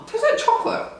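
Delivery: high squeaky laugh through words. Real, not acted. Laughing after gross bean.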